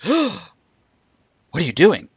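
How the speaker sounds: high then loud offended cry; shocked white woman. Retold or imitated. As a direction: voice her outraged shock. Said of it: "they're like, gasps".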